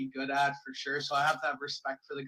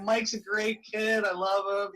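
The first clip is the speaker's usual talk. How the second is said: louder, higher, slowed-down gushing praise; nicest-guy stepdad; 5 semitones higher, 5 dB louder, slower than usual. Acted. Stepdad praising his stepson on a prank call, gushing. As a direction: gush like an over-friendly stepdad. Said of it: "be, like, the nicest guy".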